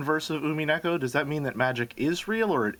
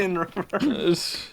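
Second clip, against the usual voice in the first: slow drawn-out; 4 semitones higher, much slower than usual. Pretend. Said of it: "do that slower and in reverse".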